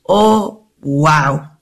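ordinary talk, nothing marked

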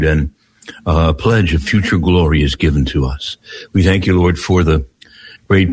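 measured prayer, pausing between phrases; spoken prayer. Real, not acted. Leads an opening prayer.

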